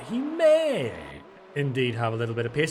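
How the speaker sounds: a hint of hyped announcer; lightly voiced commentator. Commentating the race in a put-on voice.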